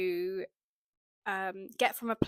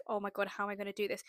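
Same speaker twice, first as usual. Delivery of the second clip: rushed panic; 4 dB quieter, much faster than usual. Retold or imitated. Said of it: "really, like".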